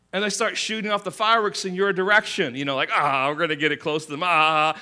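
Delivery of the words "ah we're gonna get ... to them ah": lightly voiced rowdy guy, louder; a hint of reckless whooping; rowdy prankster. Guys shooting fireworks your way, lightly acted rowdy taunt.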